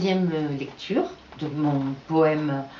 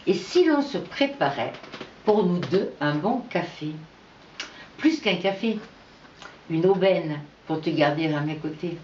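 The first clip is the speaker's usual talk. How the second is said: love poem read in measured phrases; poetry recital. Acted. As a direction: recite it with lilting openings and falling line ends. Reads own love poem. (poème d'amour récité, phrasé posé)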